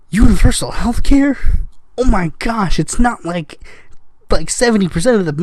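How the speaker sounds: pretend-astonished exclamation; sarcastic shock. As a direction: feign scandalized surprise. Sarcastic mock shock at host.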